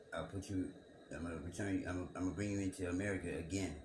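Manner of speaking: mock scripture quote, lightly sarcastic; facetious sarcasm. Mocking the verse for his viewers, dry sarcasm. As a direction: rattle off the line with dry irony. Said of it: "I'm being a little facetious and, and, and sarcastic".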